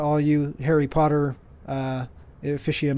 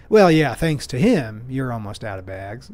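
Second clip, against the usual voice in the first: joking jab. Retold or imitated. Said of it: "I jokingly say".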